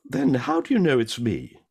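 hammed-up drunk's punchline. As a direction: deliver the punchline with glee. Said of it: "He said".

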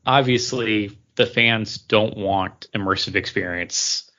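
slow, mock corporate reasoning; lightly voiced studio executive, drawn out; imitating Disney execs. Host imagining Disney executives misreading fans, slow mock reasoning. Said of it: "Disney doesn't look at this and say".

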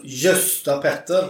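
drawn-out "Gösta Petter"; mother's swear. Retold or imitated. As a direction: stretch "Gösta Petter" slowly like mum's curse. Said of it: "Så säger hon".

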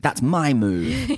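high, drawn-out mock indignation; mock upset. Host imagines him upset that Kira stormed, mock upset. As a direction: stretch it out in playful outrage, laughing. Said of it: "got really upset".

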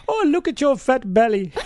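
imitating the doctor. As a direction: mimic her cheeky jab. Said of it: "and said".

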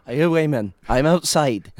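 hint of a caller announcing he's turned up outside; mock phone-call impression of a footballer; Paul Gascoigne. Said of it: "an idea of Paul Gascoigne".

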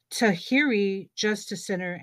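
Tahirih said the American English way; anglicized Spanish name Tahirih; gringo accent. Real, not acted. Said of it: "I say it like a gringo".

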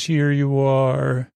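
slow, lightly processed robotic voice; mock auto-tune. Recapping the alien's greeting to the crew, in mock auto-tune. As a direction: drag it out like an auto-tuned alien. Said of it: "She's singing an auto-tune".

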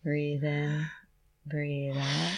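hushed, calming voice; soft and soothing. Real, not acted. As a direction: talk her gently through it. Guiding breath during injection.

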